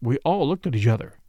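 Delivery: ordinary delivery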